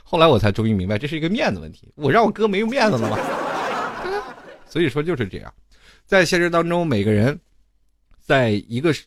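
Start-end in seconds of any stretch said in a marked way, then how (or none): 3.2-4.3 high laugh. Real, not acted. Laughs at own joke.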